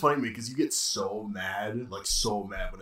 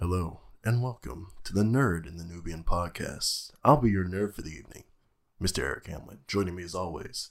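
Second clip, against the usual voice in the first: put-on ASMR-style voice. Redoing the podcast intro after being asked for the voice: put-on ASMR voice. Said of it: "It's the voice. Do it again".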